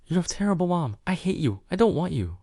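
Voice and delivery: put-on a little girl screaming through tears; sobbing child. A narrator's reading. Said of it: "burst into loud, heartbroken sobs".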